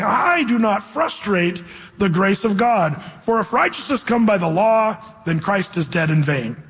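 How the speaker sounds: nicely. Retold or imitated. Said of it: "he starts out nicely saying".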